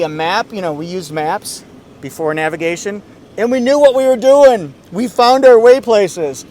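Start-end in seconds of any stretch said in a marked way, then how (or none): 3.4-6.5 raised, louder voice, playfully proud; mock-indignant boast. Reviewer joking to viewers about paper maps, mock-indignant boast. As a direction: call it out like a proud old-timer.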